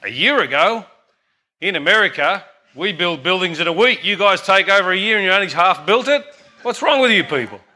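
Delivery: mock-incredulous, pitch climbing to the end; hammed-up boasting tourist; incredulous American visitor. American tourist scolding his Italian friend, mock incredulous. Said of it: "the American fellow says".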